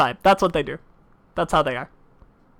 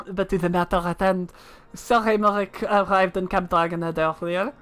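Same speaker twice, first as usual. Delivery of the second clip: put-on French accent. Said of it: "That's a very difficult word in French".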